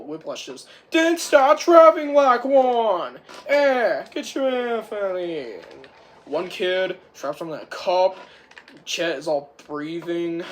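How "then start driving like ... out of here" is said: commanding shout. Retold or imitated. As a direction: bark the order. Whiplash orders Turbo.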